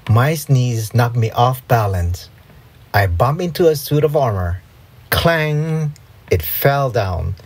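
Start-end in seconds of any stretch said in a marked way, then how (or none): 5.1-5.9 ringing, higher-pitched clang of metal; imitated clang. A narrator's reading. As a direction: ring it out like falling armor. Imitates falling armor.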